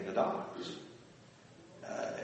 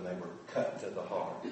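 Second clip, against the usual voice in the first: much softer and lower, grave; hushed solemn quote; 6 semitones lower, 7 dB quieter than usual. Retold or imitated. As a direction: read it as a heavy blow. Quoting scripture, grave.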